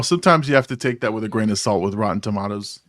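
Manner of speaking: "Tomatoes" said the British way, as "tomahtoes", with a long ah; lightly copying the English guest's "Tomatoes" as "tomahtoes". Shown as a demonstration. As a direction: borrow the English guest's "Tomatoes", toe-MAH-toes. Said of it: "I'm saying it just like you".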